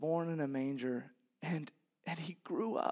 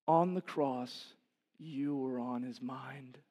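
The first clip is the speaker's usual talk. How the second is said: hushed pastoral tenderness; tender; 3 semitones lower, slower than usual. Real, not acted. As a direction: lay it down gently, word by word. Tender point about the cross.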